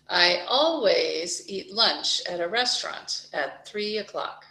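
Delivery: always pushed out; stress on always. Shown as a demonstration. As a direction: hit the word always.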